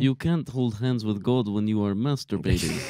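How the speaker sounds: mock Russian accent reading. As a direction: read it in a hammy Russian accent. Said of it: "can Ron do it in a Russian accent".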